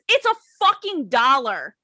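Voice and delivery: exasperated retold yelling, not a full shout; mock irate customer. Customer yelling at the waitress over a coupon, mildly mock-irate. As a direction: imitate a customer griping over a dollar. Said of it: "And I got yelled at".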